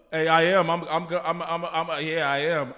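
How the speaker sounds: booming put-on voice; loud gruff voice. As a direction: belt it out tough. Loud Sons of Anarchy voice.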